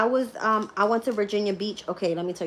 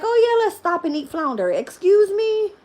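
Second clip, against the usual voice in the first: mock stepfather, then outrage; 12 semitones higher, 8 dB louder than usual. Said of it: "And then he's like".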